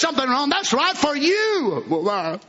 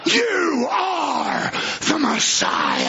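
crying out; 2 semitones higher, much slower than usual. Acted. Woman's cry of recognition.

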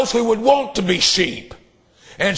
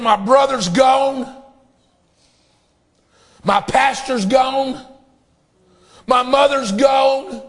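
slow, raised preacher's lament; grieving man calling out his losses; anguished cry; 4 semitones higher, slower than usual. Retold or imitated.

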